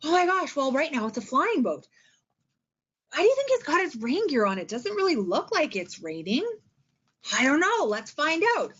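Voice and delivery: lightly acted curiosity for the kids; teacher wondering aloud. Shown as a demonstration. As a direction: wonder along with a young class. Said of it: "they're looking at the pictures. You're asking questions".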